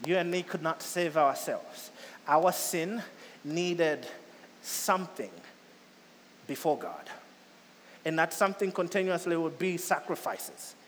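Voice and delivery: slow and deliberate with long pauses; said slowly. Shown as a demonstration. Preacher repeating the point to the congregation, slowly. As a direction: lay out each phrase slowly. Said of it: "so I'll say it slowly again".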